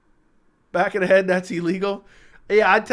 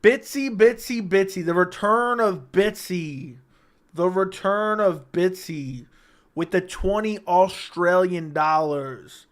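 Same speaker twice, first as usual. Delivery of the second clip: slow mock announcer; slower than usual. Dramatic donation shoutout.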